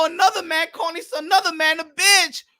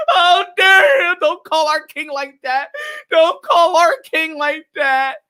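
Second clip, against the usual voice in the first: higher, hammed-up outraged wail; mock the grown men whining online; mock crying fan; 5 semitones higher than usual. Mocking the crying YouTubers, hammed-up outraged whine. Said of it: "male crying in their channel".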